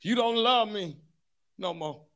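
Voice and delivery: whiny mock sobbing complaint; fake crying voice. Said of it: "they get that fake crying voice".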